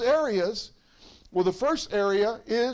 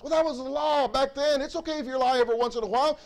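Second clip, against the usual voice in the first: higher mock-casual excuse, quick; 4 semitones higher, faster than usual. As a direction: toss off the lie as no big deal. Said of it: "Thou shalt not bear false witness".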